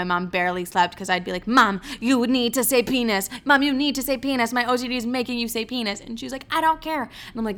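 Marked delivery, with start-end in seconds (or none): 1.5-6.0 pressing, slightly raised demand; insistent pleading. Retold or imitated. Daughter pressing mom to say the word, insistent. 6.5-7.0 high-pitched exasperated refusal; fed-up mom. Retold or imitated. Mom refusing her daughter's demand, fed up.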